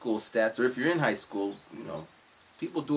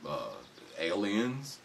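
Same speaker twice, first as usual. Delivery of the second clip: puzzled guessing; 4 semitones lower, 5 dB quieter, slower than usual. Retold or imitated. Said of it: "scratching their heads thinking".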